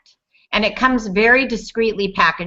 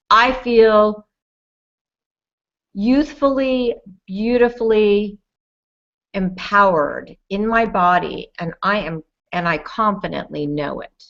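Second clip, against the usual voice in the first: affirmation. Shown as a demonstration. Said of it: "I want you to say".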